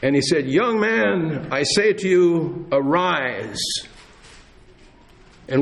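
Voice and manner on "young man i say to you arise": raised, slow proclaiming command; Jesus commanding. Acted. Preacher voicing Jesus raising the dead man, commanding call. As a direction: call out over a crowd with authority. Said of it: "listen as Jesus speaks above the people".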